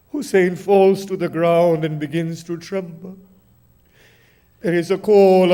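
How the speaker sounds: grieving sermon narration, rising and falling in waves; mournful recitation. Acted. Preacher recounting Hussein's death to mourners in lamenting recitation. Majlis recitation of Karbala martyrdom.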